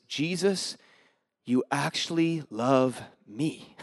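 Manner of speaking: slow, soft, low-voiced wonder; awed, tender. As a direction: let the realization sink in softly, slowly. Retold awed revelation of love.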